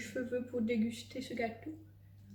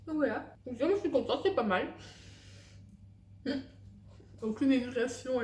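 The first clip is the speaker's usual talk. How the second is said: parle en mâchant du gâteau; bouche pleine; 2 semitones higher than usual. Real, not acted. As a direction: paroles à travers une bouchée. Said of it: "elles parlent la bouche pleine". (mâche en parlant)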